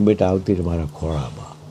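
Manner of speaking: put-on soft, low call to a child; quiet, lightly acted motherly comfort; retold motherly reassurance. Mother goddess consoles daughter.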